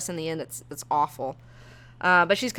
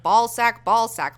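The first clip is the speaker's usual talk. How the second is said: how it sounds in her head; 4 semitones higher, 5 dB louder, slower than usual. Retold or imitated. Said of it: "it's just like".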